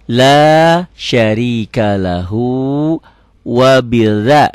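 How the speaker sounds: slow recitation, soft th-like "bidza". Shown as a demonstration. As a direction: stretch it, soften the dz in "bidza". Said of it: "jangan wa bida".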